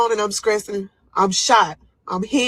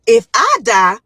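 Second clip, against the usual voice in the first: high, loud, urgent plea; retold scream; 6 semitones higher, 6 dB louder, much slower than usual. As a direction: shout at the nurses so they save you first. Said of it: "I'm screaming to them".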